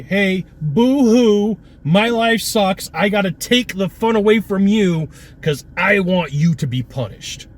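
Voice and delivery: mock whiny, high and slow; whiny grump. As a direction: mimic a sulking complainer, dragged out. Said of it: "Their job is to say".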